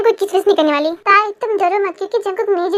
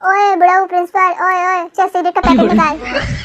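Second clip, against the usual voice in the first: cheeky. Acted. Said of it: "तमीज कहीं की कोई ऐसे बात करता है".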